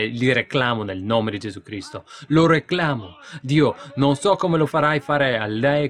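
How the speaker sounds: shouted preacher's climax; preaching at full force. Acted. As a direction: let it ring out like a revival sermon. Urging prayer for family.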